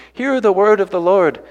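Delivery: a preacher's emphatic call to hear God; ringing proclamation. Shown as a demonstration. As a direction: proclaim it to the whole valley. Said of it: "God wanted Ezekiel to really emphasize".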